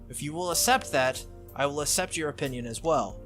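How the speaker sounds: lightly voiced formal Saber figure; measured, resolute offer with a slight lift. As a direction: set out terms formally, lightly in character.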